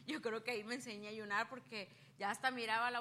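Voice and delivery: laughing through the words; chuckling as she repeats it. Real, not acted. Laughing as she retells her fasting to the church.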